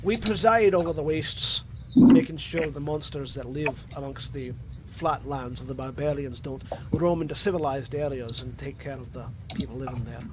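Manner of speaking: Scottish blood hunter explaining his duty; Scottish accent. Acted. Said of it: "going from Scottish to Russian".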